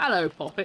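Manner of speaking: usual speaking voice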